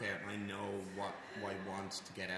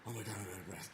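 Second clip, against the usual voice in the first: mock panic; 3 semitones higher than usual. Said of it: "That's way better for me mentally than going".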